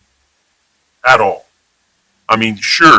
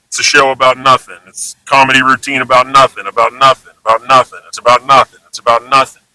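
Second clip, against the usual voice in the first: mock mantra; faster than usual.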